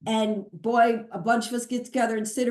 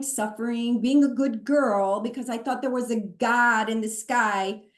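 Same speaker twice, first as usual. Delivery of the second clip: an angry rant, replayed; retold anger; 2 semitones higher than usual. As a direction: vent the old outrage at being fooled. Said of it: "first I got angry".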